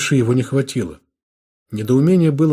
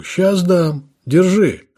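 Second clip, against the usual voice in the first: higher, louder threat as he strikes; furious shout; 7 semitones higher, 4 dB louder, much slower than usual. Acted. Lieutenant shouts at the prisoner as he strikes. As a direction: bark it while swinging. Officer swings a punch.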